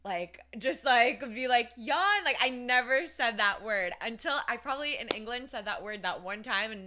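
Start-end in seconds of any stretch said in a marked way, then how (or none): 1.8-2.2 "Yawn" blurted high and loud, imitating a botched English accent; retold mispronounced yawn. Recalling childhood trouble saying the word, "Yawn" mispronounced high and loud. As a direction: overplay a failed attempt at saying "Yawn". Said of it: "every time I'd try to say the word, I'd just go".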